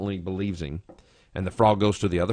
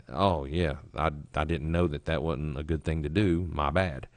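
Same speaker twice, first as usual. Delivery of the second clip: sheepish admission; 5 semitones lower, 5 dB quieter than usual. Acted. Sheepish admission, imagined trader.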